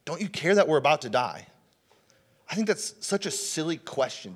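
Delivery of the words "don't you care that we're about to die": lightly voiced anxious plea, higher pitched; mock pleading with a higher voice; disciples' plea. Disciples waking Jesus in the storm, mildly panicked plea. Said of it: "the disciples come to him and, and like".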